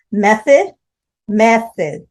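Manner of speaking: "Method" with the stress on "Meth"; two stresses. Shown as a demonstration. Teacher showing the class where Method takes its stress. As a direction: lean on the first syllable of "method". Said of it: "two stresses".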